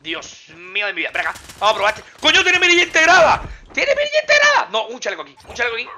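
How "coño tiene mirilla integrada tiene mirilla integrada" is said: high, loud amazed outburst; amazed shout. Real, not acted. Gamer thrilled at finding a built-in scope, shouting. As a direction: shout it like you can't believe your luck.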